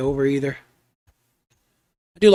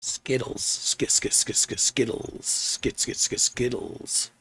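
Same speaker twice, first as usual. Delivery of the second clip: hushed, unvoiced cat call, slow; a soft whispered kitty call; 5 semitones lower, 9 dB quieter, much slower than usual. Real, not acted. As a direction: coax the cat over softly. Softly calling the cat over.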